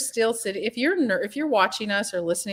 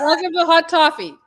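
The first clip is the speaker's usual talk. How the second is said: laughing; 9 semitones higher, 7 dB louder than usual. Pretend. Joking on the flubbed show name.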